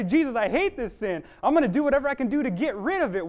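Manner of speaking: high, loud, urgent vow; impassioned and quickening; angry resolve. Acted. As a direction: pour out a fervent, angry promise. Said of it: "I'm so angry".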